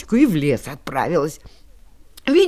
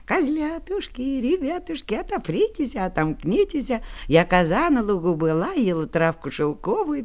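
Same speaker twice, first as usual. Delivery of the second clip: thin mother goat voice. Acted. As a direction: sing it gently like a mother goat. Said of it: "Коза и запел тоненько".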